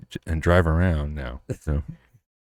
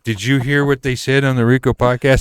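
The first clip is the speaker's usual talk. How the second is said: louder, higher eager gossip; mock excited fan; 6 semitones higher, 5 dB louder than usual. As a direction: play a fan bursting to share news. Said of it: "Be like".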